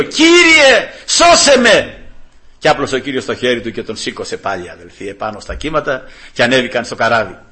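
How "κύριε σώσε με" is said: high, loud cry for rescue; acted plea of a drowning man, pitched way up. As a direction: call out desperately to the Lord. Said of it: "Και φώναξε τον Κύριο".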